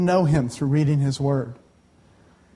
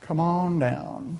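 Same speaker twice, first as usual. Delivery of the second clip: slowly drawn out, softer; slow soft invitation; 6 dB quieter, much slower than usual. Shown as a demonstration. Preacher inviting students forward, slow and soft. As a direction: coax them up gently. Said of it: "So if you're going to school".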